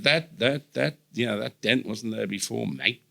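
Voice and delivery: veiled threat in mock Australian; threatening Australian mate. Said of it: "how kind of threatening, um, Australians can make the word mate sound".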